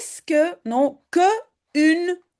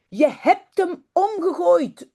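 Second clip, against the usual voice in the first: colère légère; 4 semitones higher, slower than usual. Acted. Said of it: "roept Jip woedend".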